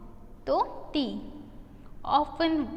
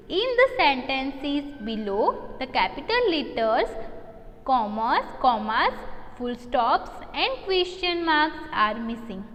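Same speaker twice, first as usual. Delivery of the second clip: slow reading aloud; much slower than usual. Shown as a demonstration. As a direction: read the question out very slowly and clearly. Teacher reads question aloud.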